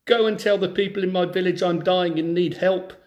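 clear, lively storybook reading; story narration. Acted. Teacher reads a folk tale to schoolchildren, storybook narration. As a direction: read the tale to a class of children.

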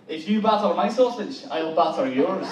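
put-on a light Scottish accent on a cheeky line. Comedian testing a Scottish chat-up line on the women, light Scottish accent. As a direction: give it a hint of Scottish brogue. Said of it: "a Scottish chat up line".

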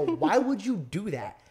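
drawn-out, baffled question at half speed; slow it right down like you can't believe it; slow stunned why. Retold or imitated. Retelling the fight photo, slow baffled asking. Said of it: "I go".

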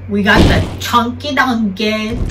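put-on, silly announcer flourish on the name; hammed-up reveal. Host unveils the number one shoe, hammed-up. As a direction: playfully stretch out "Chunky Dunky". Playful reveal, then stops himself.

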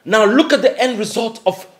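eager and pumped up; full of triumphant excitement; excited. Acted. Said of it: "Why are you super excited?".

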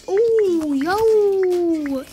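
loud, high burst of hype; excited shout. Real, not acted. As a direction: yell out in excitement. Sudden hype mid-game.

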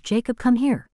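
put-on calling the boy in from outside; yelled call. A narrator's reading.

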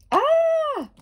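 very high, loud delighted cry; excited squeal. Real, not acted. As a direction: squeal with joy at the card. Excited at the card.

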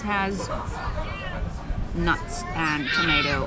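talking while chewing; words round a bite of pizza; mouth full. Real, not acted. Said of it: "speak with your mouth full".

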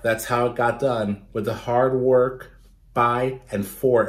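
steady read-aloud storytelling voice; story narration. A narrator's reading. Teacher reading a picture book to children, lively narration. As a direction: read it like story time for kids.

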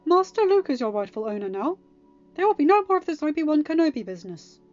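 fussy droid telling off a companion; loud, high-pitched reprimand; scolding. A narrator's reading. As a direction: scold officiously at full voice. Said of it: "three P O scolded".

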